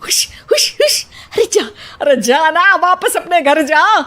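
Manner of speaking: high shooing cries; shooing away. Acted. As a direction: chase the lizard off with your voice.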